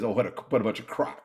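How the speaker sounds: quick scornful inner critic, brushing it all off; lightly voiced mocking inner critic; dismissive inner voice. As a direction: rattle off the doubts like a sneering voice in your head. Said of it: "the voice in my head that says".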